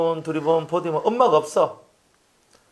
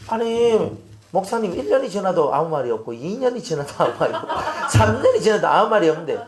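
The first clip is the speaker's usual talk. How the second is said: mock protest; 3 semitones higher than usual. Acted protest to the pastor.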